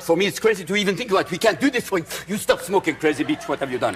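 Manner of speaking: lightly put-on French accent.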